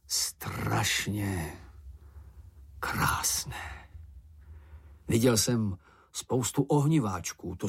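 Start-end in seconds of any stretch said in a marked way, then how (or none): 0.1-3.9 hushed awe. Acted. Snufkin marvels at volcano.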